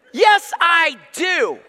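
slow, high laughing yes I do; laughing protest. Retold or imitated. Pastor laughing back at a friend's reassurance, slow. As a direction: laugh it off, drawn out.

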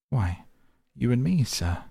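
undaunted reply. A narrator's reading. Butler eagerly volunteers himself and the lawyer, loud bold reply. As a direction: answer boldly, ready for the fight. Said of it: "the undaunted reply".

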